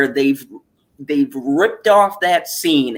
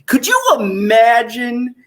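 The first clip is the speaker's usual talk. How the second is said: incredulous shout; 9 semitones higher than usual. Real, not acted. Outraged rhetorical exclamation.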